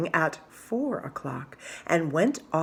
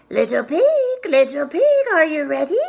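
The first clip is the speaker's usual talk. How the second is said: louder, higher calling out; wolf calling; 9 semitones higher, 7 dB louder than usual. Acted. Wolf calling the little pig to come out, loud. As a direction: call through the door to the pig.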